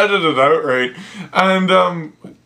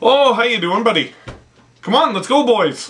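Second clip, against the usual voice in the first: put-on, salt-of-the-earth Canadian accent; 3 semitones higher than usual. Describing salt-of-the-earth coworkers, the speaker imitates them in a Canadian accent. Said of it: "the Canadian accent's a little further north".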